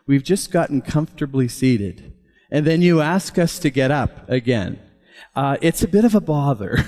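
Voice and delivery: imitating an older British man; lightly put-on British accent, politely complaining. Grandpa asking the pastor about standing, lightly imitated British accent. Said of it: "his British accent".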